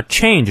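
"change" said with full stress; stressed content word. Shown as a demonstration. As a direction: lean hard on "change". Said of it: "change重读". (“change”重读)

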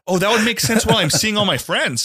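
high-pitched retold dawning surprise; mock realisation. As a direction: act out the penny dropping, voice up.

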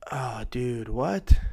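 hushed 'oh dude', then a voiced 'what?'; mind blown. Real, not acted. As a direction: start under your breath in disbelief, lift on 'what'. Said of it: "something blow, blew my mind".

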